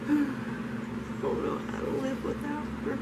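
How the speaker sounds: high, tearful, breaking voice; crying. Real, not acted. Drunk, grieving for her dog.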